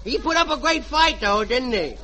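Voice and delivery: lightly voiced bratty kid; a mischievous boy bragging about the turkey; little boy. Junior to his mother about the turkey, bratty kid voice. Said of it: "and I'll be the little boy".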